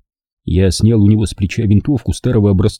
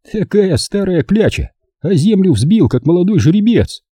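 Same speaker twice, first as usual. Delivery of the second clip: higher, mocking grumble; grumbling; 10 semitones higher than usual. A narrator's reading. Ovcharov mutters about the old man, mild grumble. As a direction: grouse at the old nag with a sneer. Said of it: "проворчал Овчаров".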